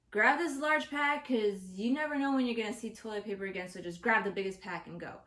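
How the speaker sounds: loud, insistent inner voice; urgent self-talk. Retold or imitated. Shopper urging themselves on in the aisle, urgent. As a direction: push it out like an order to yourself.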